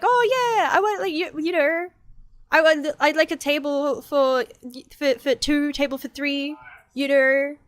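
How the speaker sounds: high, hesitant customer voice; lightly voiced awkward diner customer; mock nervous customer. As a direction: ask for a table like a flustered parent. Mock customer ordering a table.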